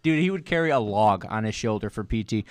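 ordinary talk, nothing marked

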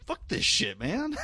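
fed-up protest leaping high at the end; mock exasperation. Fan fed up with characters dying, mock exasperation. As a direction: throw up a playful, exasperated complaint.

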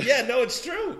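high, loud agreement through laughter; laughing. Real, not acted. Storyteller agreeing with the listener's joke, laughing. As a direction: burst out agreeing, cracking up.

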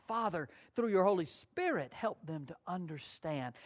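soft, humble plea to God; quiet prayer. Retold or imitated. Preacher voicing Paul's quiet prayer for help. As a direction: pray it gently, asking for words. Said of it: "They were relying on the Lord".

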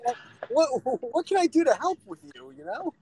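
mock the angry poster with sweetness; sarcastically sweet reply to an angry troll; mock concern. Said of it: "And it's like".

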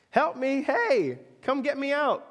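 hey, get me out of here; a boy calling from the water to the lifeguard; calling for help. Retold or imitated.

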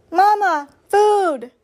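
put-on high, loud baby-bird peep; hungry gosling. A narrator's reading. Gosling begging its robot mother for food, high peep. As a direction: beg like a famished hatchling. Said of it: "said the gosling".

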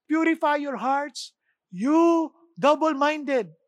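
slow, loud proclaiming; emphatic quote. Acted. Preacher to congregation, quoting James, loud and slow. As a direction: press each word slowly. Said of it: "Sabi ni James".

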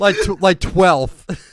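slow demo of "twelfth" starting like "ch"; mispronounced twelfth. Shown as a demonstration. Streamer demonstrates his embarrassing word, mispronouncing "twelfth". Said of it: "I say it like".

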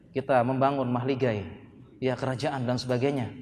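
soft, low mock-romantic wooing; hammed-up gentle courtship voice; tender romantic promise. Same acted suitor's romantic promise.

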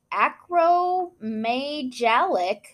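"acromegalic" sounded out slowly, syllable by syllable; careful pronunciation. Shown as a demonstration. Reading "acromegalic" slowly to her co-host. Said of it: "here's a word".

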